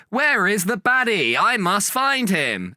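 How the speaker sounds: slow, high mock-heroic search; panto hero. Panto hero searching the stage for the baddie, slow and hammed. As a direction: overplay the clueless hero. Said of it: "will sort of be like".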